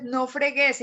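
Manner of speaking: "no fregues" with stress on GUÉS; valluno stress. Retold or imitated. Teacher quoting TV character, "fregues" stressed on the end. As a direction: imitate valluno "no fregues", last syllable stressed. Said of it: "su acento en otra sílaba distinta".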